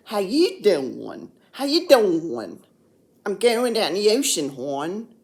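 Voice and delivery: broad, drawn-out Baltimore vowels; Baltimore accent. Shown as a demonstration. Vlogger showing viewers how Baltimore talks, Baltimore accent. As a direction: lay on a thick Baltimore accent. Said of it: "Baltimore accent".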